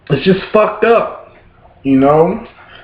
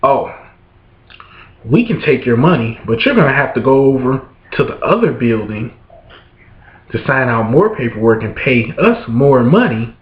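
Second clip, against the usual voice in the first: smug official; 6 semitones lower than usual. Retold or imitated. Officials telling the father to pay more, low and smug. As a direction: drone it like a condescending bureaucrat. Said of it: "these motherfuckers got nerve to tell me".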